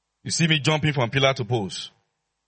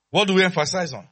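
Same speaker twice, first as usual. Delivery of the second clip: raised, higher-pitched question to the crowd; call-and-response prompt; 6 semitones higher, 4 dB louder than usual. Real, not acted. Preacher drilling the church on its emphasis, insistent call-and-response. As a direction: prompt the congregation to answer.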